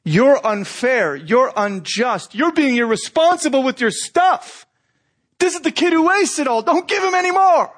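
hurled accusations. Retold or imitated. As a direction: start measured, then boil over at the father. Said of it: "The accusations start to hurl".

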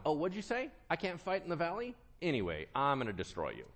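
mock-offended, high questions dropping to a quick threat; hammed-up personal offence, quickening as it goes; taking it personally. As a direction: act lightly affronted, then toss off the threat. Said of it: "This is God taking it personal".

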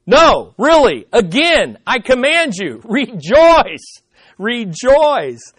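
insist, half laughing; insistent command. Retold or imitated. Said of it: "And he says".

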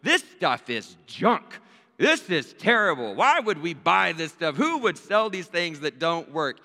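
a hint of an angry kid pacing and complaining; frustrated daughter. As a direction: play her fed-up rant, lightly. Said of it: "more and more frustrated and almost angry".

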